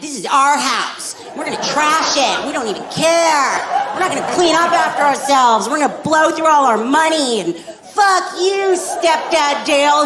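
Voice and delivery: sneering like spoiled brats; bratty kids. Retold or imitated. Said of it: "disrespectful little shits that are like".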